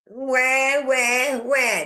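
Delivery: mocking whiny wah wah; mock crying. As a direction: imitate a whiny baby crying. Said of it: "That's all we heard".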